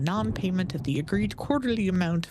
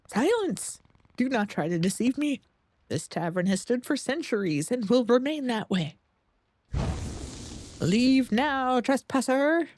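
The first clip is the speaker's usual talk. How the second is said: booming, higher angry guardian voice; a wrathful ancient guardian scolding an intruder; grinding stone statue; 5 semitones higher than usual. Acted.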